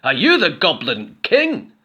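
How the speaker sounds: goblin chorus. A narrator's reading. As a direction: ask in awe. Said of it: "said the other goblins".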